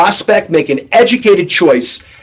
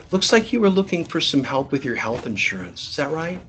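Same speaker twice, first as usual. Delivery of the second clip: much softer, careful pitch; soft and gentle; 3 semitones lower, 12 dB quieter than usual. Shown as a demonstration. Rep pitching a timid Jane, soft and gentle. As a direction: say it gently to a shy caller. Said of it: "No, it's".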